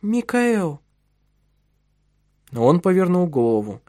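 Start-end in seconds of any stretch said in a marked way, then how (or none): 0.0-0.8 plaintive call. Acted. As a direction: call him timidly, pleading. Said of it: "жалобный голос".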